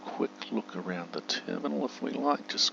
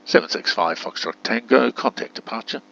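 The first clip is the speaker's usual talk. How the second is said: loud, higher controller call; raised, clearly spoken radio phrasing; tower radio command; 5 semitones higher, 10 dB louder than usual. Pretend. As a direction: project it like an air traffic instruction. Issuing tower command to game.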